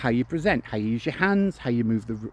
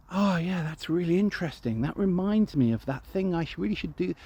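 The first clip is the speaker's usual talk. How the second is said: a touch absent-minded, higher and softer; distracted listener; 5 semitones higher, 4 dB quieter than usual. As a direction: drift off mid-thought as you speak. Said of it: "they'll go".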